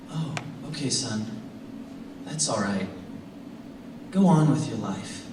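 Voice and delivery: lightly imitated resigned father, low at first; guilt-tripping tone. Father letting his son go on with his life, guilt-tripping tone. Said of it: "he uses this tone of voice".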